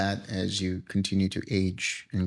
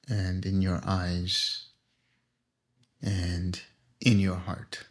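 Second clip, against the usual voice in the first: guided meditation. Acted. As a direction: ease the group into stillness, unhurried.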